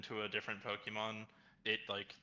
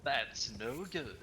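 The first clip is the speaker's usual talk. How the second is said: drawn-out mocking repeat; slow deadpan echo; much slower than usual. Shown as a demonstration. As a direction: repeat it slowly and flatly. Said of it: "echoed slowly".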